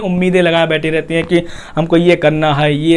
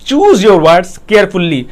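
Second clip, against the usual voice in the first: each word drawn out for emphasis; slow emphatic English heading; 4 dB louder, much slower than usual. Shown as a demonstration. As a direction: choose your words carefully, said very slowly. Announcing key point slowly.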